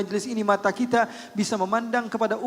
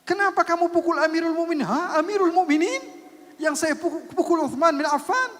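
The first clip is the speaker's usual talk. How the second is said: loud, higher, stunned voices; shocked shouting; 9 semitones higher, 4 dB louder than usual. Retold or imitated. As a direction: shout in disbelief. Shouted exchange after the beating.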